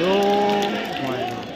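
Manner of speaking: loud, sudden cry of surprise; excited cry. Real, not acted. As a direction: gasp out loud at the save. The keeper makes a save.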